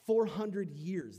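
Four drawn out, slow and loud; stress on FOUR. Acted. Preacher stressing the long slavery, slow loud Four. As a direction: hammer the word Four slowly. Repeated emphatic phrase.

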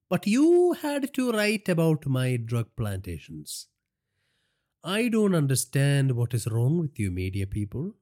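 high, slow, amused villain voice; mocking crime boss eyeing his captive; gloating gangster boss. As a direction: savour it like a cruel boss. Villain voice for Naresh.

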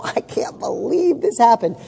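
a light, laughing shrug of a line; amused disbelief. Retold or imitated. Speaker shrugging off a setback, amused and light. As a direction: say it half-laughing, letting the mishap roll off. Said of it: "what if you just go".

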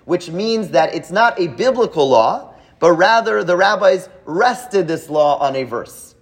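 rather drawn out slowly to mark the contrast; slow down and lean on "rather"; slow, deliberate contrast. Shown as a demonstration. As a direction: spell out the difference slowly. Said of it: "You hear the difference".

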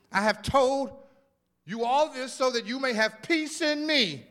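reading the verse with growing intensity; building scripture reading. Acted. Pastor reading John to the church, building. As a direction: let the scripture swell as you read it. Reads scripture with rising force.

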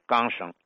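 钢绳 as "gangsheng" for jiangsheng; Beijing dialect pronunciation. Shown as a demonstration. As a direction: say 钢绳 with g replacing j. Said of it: "北京方言说成是钢绳".

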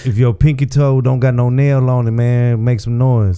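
hyping up the club crowd; club MC hype. Acted. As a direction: call out to the crowd. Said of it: "I would say".

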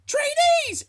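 high, loud mock yell; retold yell. Officer calling out drunk trainees at night, high retold yell. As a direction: yell it out like a barked summons. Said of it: "she just yells out".

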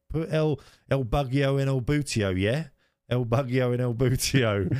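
high, hammed-up Spanish accent mocking a cab driver. Tourists mocking their cab driver, in a high, hammed-up Spanish accent. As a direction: mangle El Bugio and El Butio in a bad Spanish accent. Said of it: "we're really mocking this cab driver".

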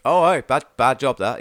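a burly desk sergeant grumbling to a corporal, loud; gruff sergeant. Acted. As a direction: play a blunt desk sergeant, loudly. GM voices sergeant, loud Scots aye.

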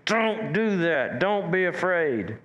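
slow, firm and stern. Retold or imitated. Pastor sternly telling his kids not to fear. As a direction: lay down the law slowly. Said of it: "get a little bit stern with myself".

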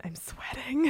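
whispered "I'm sweating" like the meme; breathy whisper of a famous meme line; Rick Grimes. Retold or imitated. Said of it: "That Rick Grimes meme".

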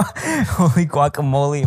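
put-on slow, sneering echo of an old-timer; mocking old prospector. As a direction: drawl it back mockingly. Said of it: "I'm done listening to you".

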